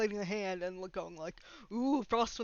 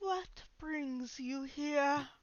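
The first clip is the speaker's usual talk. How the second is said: strange, high, eerie, otherworldly possessed spirit voice; 5 semitones higher, 3 dB quieter than usual. Narrating as Ronaldo lifts from the floor and speaks: a different voice from his mouth. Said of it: "Says a different voice coming from his mouth".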